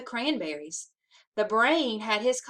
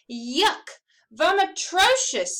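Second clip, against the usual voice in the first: high, loud, drawn-out squeal of disgust; 8 semitones higher, 5 dB louder, slower than usual. Acted. Muffy squealing her refusal of the turkey part. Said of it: "squealed Muffy".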